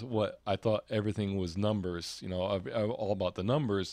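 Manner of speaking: ordinary delivery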